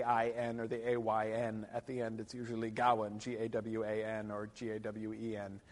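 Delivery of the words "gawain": Gawain said GOW-un; short second vowel. Shown as a demonstration. Lecturer explaining the Middle English spelling, short second vowel. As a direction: stress the first syllable of Gawain, reduce the second. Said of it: "does not suggest a long vowel on the second syllable".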